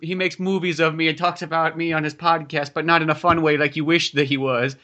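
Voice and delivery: lightly voiced aggrieved landlord; a touch of mock hurt; self-pitying landlord. Landlord complains about being mocked on a podcast, mildly wounded. Landlord's lament carries on in role.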